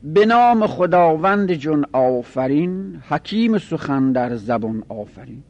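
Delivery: slow, measured reading of a couplet, falling away in the second line; verse recitation. Shown as a demonstration. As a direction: recite it in metre, stretching the syllables. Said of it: "حالا ما یه شعر براتون بر این وزن بیاریم".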